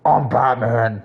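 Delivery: slow, lightly growled Batman line; a half-hearted stab at the Batman growl; gruff Batman voice. Retold or imitated. Streamer tries the Batman line for chat, slow and lightly gruff. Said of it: "do the damn Batman".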